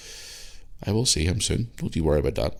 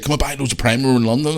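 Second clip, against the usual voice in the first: higher, louder mock hype of a young fan; imitating Lewis; 8 semitones higher, 6 dB louder than usual. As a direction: ham up a kid selling drinks. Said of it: "And he's like".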